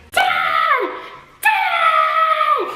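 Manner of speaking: high, loud frightened shout; screaming for dad. Retold or imitated. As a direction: yell for dad in the dark. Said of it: "I scream out to my dad".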